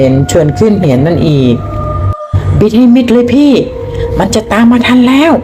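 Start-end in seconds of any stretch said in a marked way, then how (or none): 2.1-5.3 high, slow terrified yell; shouting in terror. Acted. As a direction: scream at him to go faster. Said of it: "ก็ปลุกร้องลั่น". (ตะโกนลั่นด้วยความกลัว)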